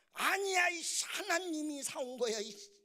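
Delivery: high, loud bratty retort; mock defiant child. Son contradicts his father, loud mock defiance. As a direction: burst out, then tail off on the curse.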